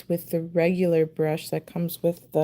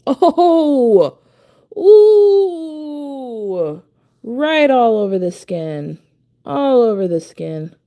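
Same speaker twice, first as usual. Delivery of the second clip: loud, laughing oh; laughing dismay; 4 semitones higher, 8 dB louder, much slower than usual. Real, not acted. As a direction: burst out laughing at the mess. Laughs at paint on skin.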